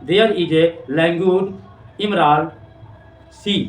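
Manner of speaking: very slow, dreamy reading of the line; slow poem reading. Shown as a demonstration. Teacher reading Amanda's daydream to students, slow. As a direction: linger on each word of the poem. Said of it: "सोचती है".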